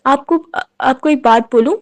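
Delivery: hesitant, tearful question with the words repeated. A narrator's reading. Wife, still crying, asks her husband shyly: tearful hesitant question. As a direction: ask haltingly through tears. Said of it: "روتے ہوئے کہنے لگی".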